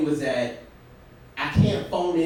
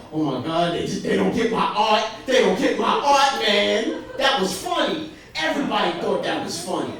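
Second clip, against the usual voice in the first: mock upset rant; 4 semitones higher than usual. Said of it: "crying, mad, like".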